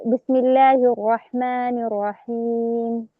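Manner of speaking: slow chanted recitation; measured Quran recitation; Quranic recitation. Shown as a demonstration. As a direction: recite it slowly in tajweed style. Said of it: "نقول مثلًا".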